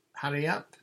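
high, loud hurry-up call; shouting. A narrator's reading. Pirates on the lookout shouting to the boat, loud. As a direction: urge them on from the shore. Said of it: "they shouted".

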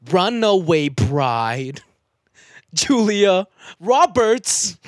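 slow dramatic declaiming; slam poetry delivery. Pretend. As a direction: draw each word out. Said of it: "Angry. Yelling".

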